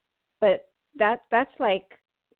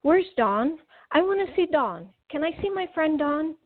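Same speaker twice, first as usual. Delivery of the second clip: excited; 6 semitones higher than usual. Retold or imitated. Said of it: "I got really excited".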